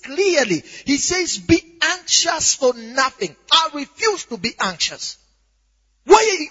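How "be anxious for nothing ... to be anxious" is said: high, emphatic scripture confession; shouted declaration. Shown as a demonstration. Preacher drowns the other voice with scripture, high shouted declaration. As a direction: declare it forcefully to drown out doubt. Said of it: "So you are shouting it loud".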